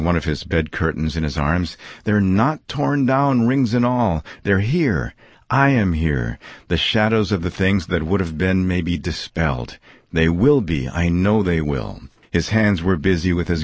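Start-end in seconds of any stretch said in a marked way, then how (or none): 2.0-12.0 lightly voiced old man overjoyed; rejoicing Scrooge. Scrooge rejoicing, curtains in arms.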